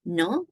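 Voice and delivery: NO rising as a question tag; tag-question intonation. Shown as a demonstration. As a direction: lift "no" to ask for confirmation. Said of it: "intonation on just".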